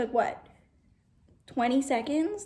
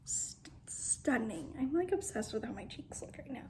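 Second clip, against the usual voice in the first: whisper; 5 dB quieter than usual. Real, not acted. Whispered admiration.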